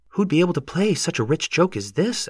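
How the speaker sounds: high-pitched, lilting yokel; arguing neighbor. A narrator's reading. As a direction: question it in a high sing-song. Neighbor argues with the farmer.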